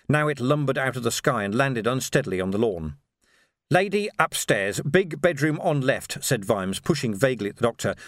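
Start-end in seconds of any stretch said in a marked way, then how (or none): 3.7-6.2 slow, worn-out orders; exhausted. Acted. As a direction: push the words out, spent.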